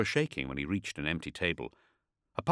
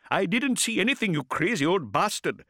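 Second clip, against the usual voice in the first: higher, louder furious retort; angry shout; 13 semitones higher, 5 dB louder than usual. A narrator's reading. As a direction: yell at him to let go. Ishak yells at gripping man.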